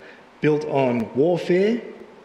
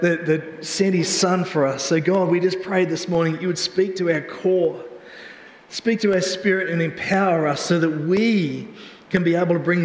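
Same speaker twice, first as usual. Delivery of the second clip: prayer. Acted. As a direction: lead the church in sincere prayer. Leads congregation in prayer.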